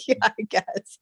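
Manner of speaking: whispered. Retold or imitated. Retold shrugging reply.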